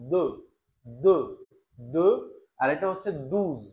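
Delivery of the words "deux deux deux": "দো" as deux, rounded eu; lips pushed forward. Shown as a demonstration. Teacher drilling French two, "দো" with lips forward. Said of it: "মুখটা একটু সামনে আসবে".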